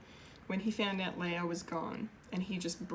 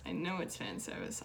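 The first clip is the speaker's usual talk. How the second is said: plain; 10 semitones lower, 4 dB quieter than usual. Shown as a demonstration.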